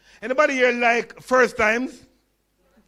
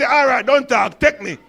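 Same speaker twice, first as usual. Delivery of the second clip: mother's voice; 3 semitones higher, 6 dB louder than usual. Retold or imitated. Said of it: "She said".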